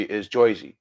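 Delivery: "Jersey" said like "Joizey", the vowel turned into oi. Shown as a demonstration. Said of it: "It's a more of an oi".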